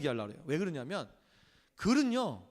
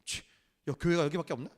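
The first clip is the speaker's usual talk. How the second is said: sulky huff; 2 semitones lower than usual. Retold or imitated. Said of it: "그렇게 얘기를 하면".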